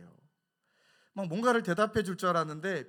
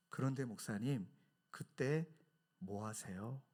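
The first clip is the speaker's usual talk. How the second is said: soft, low, tender question; humble loving tone; 4 semitones lower, 6 dB quieter, slower than usual. Retold or imitated. Elder pastor gently asking the young pastors, tender soft voice. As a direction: ask it gently, with love. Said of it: "겸손하시고 너무 사랑이 많은 말투로".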